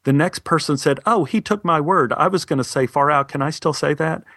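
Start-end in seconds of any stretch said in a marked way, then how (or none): 1.0-4.2 higher, worried student pleading; fretting that his word was taken; anxious classmate. Retold or imitated. Classmate frets to the teacher about his stolen word, higher and anxious.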